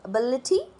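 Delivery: "एबिलिटी" with a weak first vowel and stressed "bil". Shown as a demonstration. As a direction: lean on the "bil" in "एबिलिटी", British style. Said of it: "बिलिटी पे ज़्यादा stress आ रहा है".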